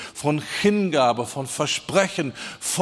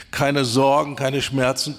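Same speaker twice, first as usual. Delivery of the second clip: ordinary delivery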